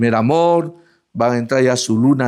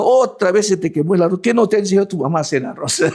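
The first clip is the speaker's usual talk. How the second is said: fast, raised, half-laughing mock complaint; mock scolding husband; 4 semitones higher, faster than usual. Husband mocks his wife over burnt rice, hammed-up grumbling.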